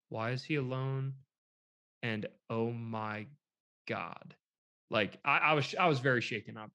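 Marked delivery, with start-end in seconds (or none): 0.1-4.4 softer, low aside; hushed disbelief, retold. Hunters watching a lone boy walk by, hushed disbelief. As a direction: mildly act out stunned quiet.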